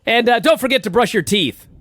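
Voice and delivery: put-on upbeat kids' show host plug, pitched high; Todd Pettengill. Host plugging the show to kids, high and chirpy. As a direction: imitate a peppy TV host addressing kids. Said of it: "Todd Pettengill's plugging the show and he goes".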